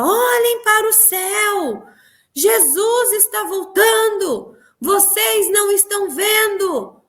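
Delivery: high, slow shouted preaching; marching soldier of Christ shouting the warning; loud proclamation. Retold or imitated. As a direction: call out so blocks away can hear. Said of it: "eu gritava muito alto pra ser escutado quarteirões".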